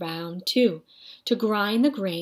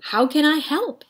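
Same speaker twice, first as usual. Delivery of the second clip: put-on high, eager boy voice; bright little boy asking keenly; 7 semitones higher, 4 dB louder than usual. A narrator's reading.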